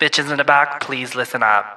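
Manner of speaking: mock megaphone announcement; megaphone announcer. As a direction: make it a public address call. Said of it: "which one? The megaphone?".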